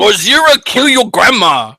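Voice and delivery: put-on Asian accent. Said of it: "your Asian accent".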